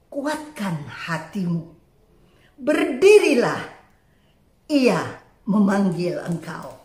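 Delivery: low, measured encouragement with pauses; retold kindly urging; suddenly friendly. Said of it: "tiba-tiba ramah banget mereka".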